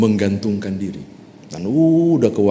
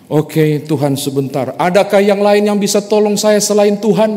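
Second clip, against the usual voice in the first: frantic high plea; 11 semitones higher, 5 dB louder than usual. Acted. Climber looks for other help.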